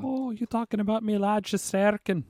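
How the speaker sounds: put-on high, slow, Irish-sounding Boston accent; botched Boston accent. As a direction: try a Boston accent and land in Ireland. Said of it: "me trying to do a Boston accent".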